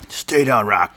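lightly voiced boxing trainer; Mickey Goldmill. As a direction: imitate a cornerman's plea. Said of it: "Mickey tells him to stay down".

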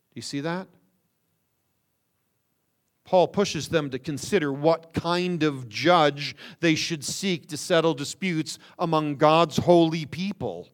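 ordinary talk

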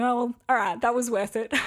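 amused retelling, breaking into a laugh; cracked up. Retold or imitated. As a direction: concede it with a laugh at the end. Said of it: "I just cracked up".

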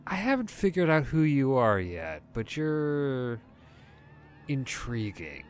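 lightly voiced playful vampire woman, teasing; Abigail's flirty voice. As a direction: purr a hint of sweet mischief at the newcomers.

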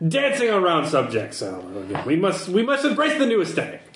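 mildly grand, mannered proclamation; lightly theatrical fashion aesthete. Acted. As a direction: declaim it like a manifesto, lightly hammed-up. Contact proclaims a new aesthetic.

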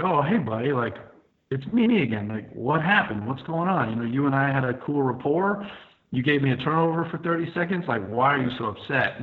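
mock-casual "what's going on?" appeal; friendly appeal. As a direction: reason with an old buddy, retelling it. Imagined friendly appeal to attacker.

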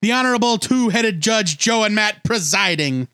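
bailiff announcing. Pretend. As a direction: announce the court in session.

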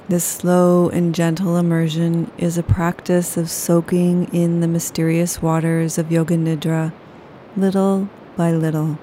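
ordinary delivery

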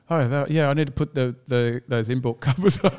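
laughing through an eager yes; laughing reply. Retold or imitated. Telling a friend, laughing while quoting himself. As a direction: giggle out the answer.

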